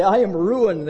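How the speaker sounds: only hint at the scream; mild mock scream. Sinners seeing God's glory, mild mock cry. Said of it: "They scream and they say".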